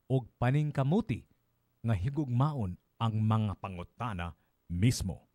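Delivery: measured Binisaya verse reading, pausing between phrases; solemn poetry reading with spaced phrases; poem recitation. Acted. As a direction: recite it line by line, deliberately. Reads the translated poem.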